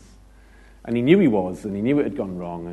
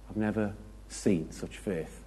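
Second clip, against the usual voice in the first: tender Jesus voice; 8 dB quieter than usual. Retold or imitated. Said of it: "heard the voice of Jesus say".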